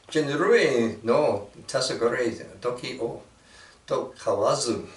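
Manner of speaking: reading a Japanese haiku. Shown as a demonstration. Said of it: "I'm gonna read this in, uh, Japanese".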